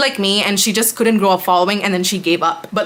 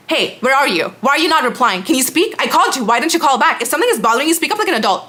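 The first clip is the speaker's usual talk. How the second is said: higher, pushy mock nagging of the ex-friend; her demanding tone; 4 semitones higher, faster than usual. Mocking the ex-friend's texts with a higher, nagging voice. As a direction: whine it up high like a clingy, demanding friend. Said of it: "This is the tone she would speak to me in".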